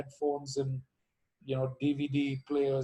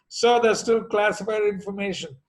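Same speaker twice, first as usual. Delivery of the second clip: stiff official on the phone, raised; a curt, official brush-off, a touch louder; embassy official; 4 semitones higher, 5 dB louder than usual. Retold or imitated. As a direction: clerk refusing over the line. Acted call with the embassy.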